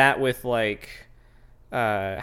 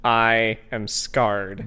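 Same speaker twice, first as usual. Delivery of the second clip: dramatic; 2 semitones lower, much slower than usual. Pretend.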